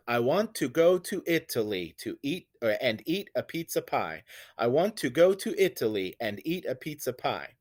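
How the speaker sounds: iambic lilt, stress on "want", "go" and "eat"; iambic beat. Shown as a demonstration. Teacher showing students a line that uses iambs, iambic beat. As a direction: recite it with every second syllable stressed. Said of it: "a line that uses iambs".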